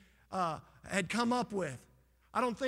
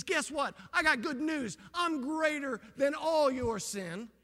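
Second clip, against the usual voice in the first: Jesus speaking; 6 semitones higher, 4 dB louder, slower than usual. Acted. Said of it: "And he says".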